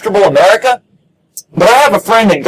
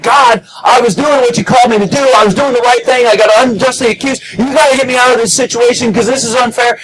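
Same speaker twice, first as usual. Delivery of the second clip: a higher, whiny protest to God; mock complaint; 4 semitones higher than usual. Imagined prisoner whining at God, mildly higher. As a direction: lightly play the frantic prisoner. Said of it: "instead of freaking out and saying".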